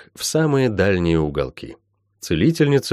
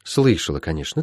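low, falling, softer echo; mentor's confirming echo; 4 semitones lower, 4 dB quieter than usual. Acted. Healer echoing Molly's answer, settled. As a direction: acknowledge it quietly and move on.

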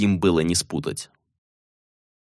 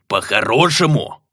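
indignant gnome bellow; gnome roar. Acted. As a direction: throw the word back in outrage. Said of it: "взревел Ветхол".

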